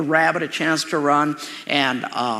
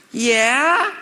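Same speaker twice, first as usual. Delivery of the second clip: calling back; 9 semitones higher, 6 dB louder than usual. Retold or imitated. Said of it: "And I said".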